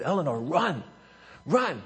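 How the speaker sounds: coach's restrained prompt; first urging. Retold or imitated. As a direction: mildly urge a runner on. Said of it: "I said".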